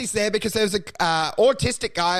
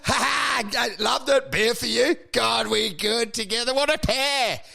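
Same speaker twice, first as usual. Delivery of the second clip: hammed-up fake friendliness; 4 semitones higher than usual. Fake chummy to heckler.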